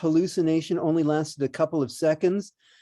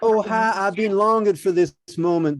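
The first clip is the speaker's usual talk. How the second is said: a hint of an Alabama accent; 3 semitones higher than usual. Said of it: "He just turned into a guy from Alabama".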